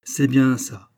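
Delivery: a touch of a smile in the approval; smiling. Acted. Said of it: "dit Paulin Broquet en souriant". (le détective approuve en souriant légèrement)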